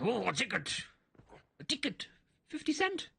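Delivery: a tourist pretending not to understand, voice climbing; feigned ignorance. German man voiced in story.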